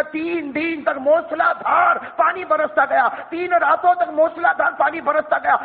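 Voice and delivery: slow, ringing preacher's call; slow fervent sermon shout; preaching shout. Acted. Preacher building to a climax.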